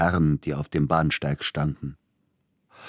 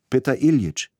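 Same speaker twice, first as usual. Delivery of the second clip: much higher, loud call through cupped hands; 9 semitones higher, 6 dB louder than usual. Acted. Young Silotti calling for the composer, loud call. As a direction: call across the platform. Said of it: "rief er plötzlich".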